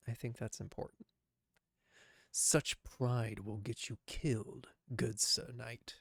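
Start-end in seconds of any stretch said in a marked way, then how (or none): 2.3-6.0 gravelly voice. Acted. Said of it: "I can't do that gravelly voice".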